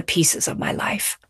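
softly whispered resolve; hushed, whispered confession. Real, not acted. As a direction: let it fall to a whisper. Closing testimony in hushed voice.

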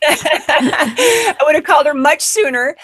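laughing through the line; amused, laughing aloud. Real, not acted. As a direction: chuckle while telling the joke. Laughing at own punchline.

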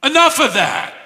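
high, lightly acted demon telling him off; angry demon. Shown as a demonstration. Pastor voicing the demon silencing the preaching Jesus. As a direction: push Jesus away, mildly acted. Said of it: "We could translate it".

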